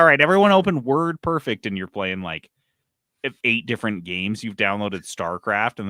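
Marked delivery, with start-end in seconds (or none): 0.0-1.7 loud, higher teacher voice; clueless teacher voice. Retold or imitated. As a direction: announce it like a teacher.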